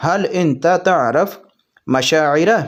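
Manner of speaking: slow, careful Arabic phrase; slow Arabic demo. Shown as a demonstration. Teacher showing viewers the Arabic, said slowly. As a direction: spell out "حل انت تعرف" slowly, word by word. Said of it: "تو اس کو عربی میں بولیں گے".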